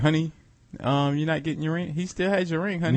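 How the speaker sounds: softly prodding wife, hushed aside; Kraft's nagging wife. Acted. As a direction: play a wife discreetly nudging her husband. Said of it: "I guarantee you his wife was there".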